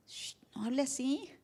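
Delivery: hushed shush. Retold or imitated. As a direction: hush them softly. Shushing a critic. (silencio suave, casi en voz baja)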